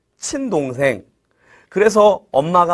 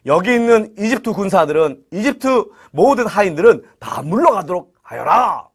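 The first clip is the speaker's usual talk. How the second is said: acted royal order; storyteller voicing a ruler's command. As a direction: issue a decree to the servants. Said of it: "명령했어요".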